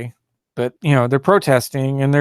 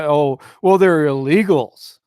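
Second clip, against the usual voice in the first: mocking quote; 3 dB louder than usual. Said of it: "Anyone who talks like that".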